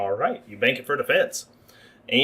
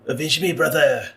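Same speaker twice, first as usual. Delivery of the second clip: put-on heavy French accent, a dying rat's last cry; 4 semitones higher, 5 dB louder than usual. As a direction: call out for revenge in a thick French accent. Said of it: "with a heavy French accent".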